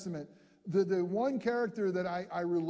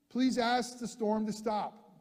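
Peter calling out; 4 semitones higher, slower than usual. Acted. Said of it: "Peter answered him and said".

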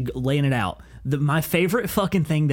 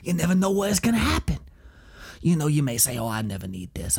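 lightly voiced rambling instructor with an accent; comic imitation of an accented instructor; instructor impression; 4 semitones lower, 4 dB quieter than usual. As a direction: deliver a mock warning, dropping lower and softer. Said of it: "he has this weird obsession".

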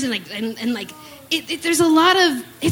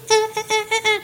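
beatboxing; 7 semitones higher, much faster than usual. Pretend. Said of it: "enough about my beatboxing".

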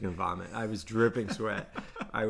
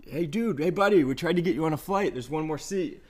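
higher, eager friendly call; excitable greeting; 5 semitones higher, 3 dB louder than usual. Retold or imitated. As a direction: greet him like an excited buddy. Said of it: "Jim comes in".

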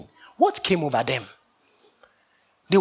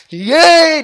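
high, loud crowd cheer; cheering shout; 11 semitones higher, 12 dB louder than usual. Retold or imitated. Disciples in the skit cheering the plan, high loud shout. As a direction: yell yay like a cheering crowd. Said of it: "They were shouting".

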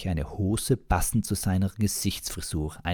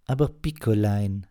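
scolding; 4 semitones higher, 4 dB louder than usual. Acted. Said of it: "ermahnte die Frau".

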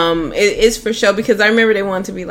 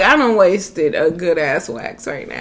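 slow, laughing mock complaint; mock lament; slower than usual. Recalling cancelled visit after waxing, mock slow lament. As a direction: drag out the disappointment. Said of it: "I was like".

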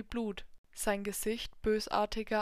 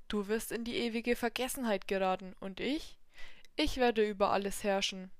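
menacing devil. Acted. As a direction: threaten him over his deathbed. Devil's final threat.

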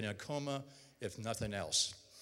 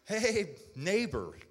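hearty greeting; 8 semitones higher, 7 dB louder, much slower than usual. Retold or imitated. Neighbor Matt greets him loudly.

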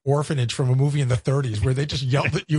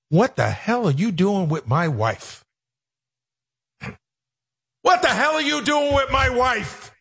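squawking comic outrage; hammed-up outraged husband impression; Gilbert Gottfried; 7 semitones higher than usual. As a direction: squawk each word in a put-on comedian voice. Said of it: "my Gilbert".

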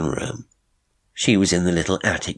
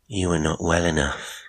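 gently. Acted. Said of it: "Ada said gently".

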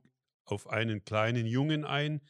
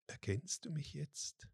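soft, higher whispered question; 6 semitones higher, 9 dB quieter than usual. A narrator's reading. The voice whispering to Martin, soft and higher. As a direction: whisper it close to his ear. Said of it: "flüsterte die Stimme".

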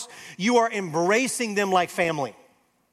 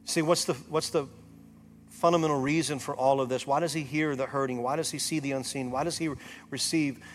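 softer, lower, intimate preaching; soft altar call; 5 semitones lower, 7 dB quieter than usual. Acted. Pastor speaking softly to hurting listeners, tender appeal. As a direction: draw each listener close, gently. Quiet reflective preaching over music.

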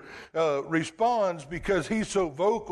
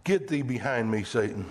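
low, stern command, dropping on Satan; Jesus rebuking Satan in a low stern voice; stern rebuke; 6 semitones lower than usual. Retold or imitated. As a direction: order the tempter away. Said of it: "the sternest or the harshest words".

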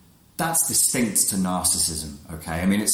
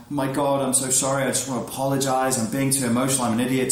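mock gushing apology; 4 semitones higher, faster than usual. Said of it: "she'll shift from".

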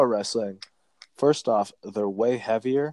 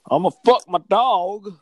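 mock redneck voice; 11 semitones higher, 5 dB louder than usual. Mocking hypocrites who hate kneeling, in a high hick voice. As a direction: sneer through a dumb hick voice, pitched way up.

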